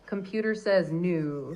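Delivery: slow delivery, "new" held long; drawn-out catchphrase intonation. Shown as a demonstration. Trying the requested catchphrase, drawn-out intonation. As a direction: stretch the phrase out, lingering on "new". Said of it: "those little phrases that you wanted".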